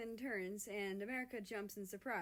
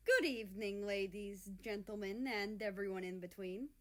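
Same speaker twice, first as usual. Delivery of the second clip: strong voice; 4 dB louder than usual. Acted. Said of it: "His voice is strong".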